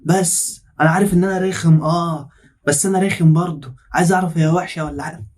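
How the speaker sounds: slow, drawn-out mock pleading; lightly mocked lovesick nagging, unhurried; mimicking pleading suitor. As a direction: drag it out like a pestering suitor.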